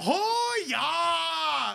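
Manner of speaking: jokey, very high, put-on Canadian accent. Teasing another speaker about the voice they do, mock canadian accent. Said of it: "what voice you're doing when you're going".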